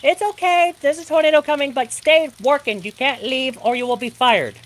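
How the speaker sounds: high, mocking voice of an uncaring boss. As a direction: sneer it like a boss who doesn't care.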